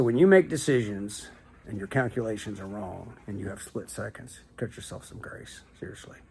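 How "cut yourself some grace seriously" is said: whispering. Real, not acted. Advice said softly.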